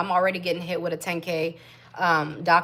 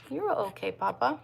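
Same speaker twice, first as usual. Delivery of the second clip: softer, murmured reassurance; soft soothing; 3 semitones higher, 6 dB quieter than usual. Real, not acted. Soothing her newborn.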